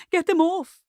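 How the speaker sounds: high loud panicked scream; panicked cry. A narrator's reading. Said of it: "cried Miss Davenport".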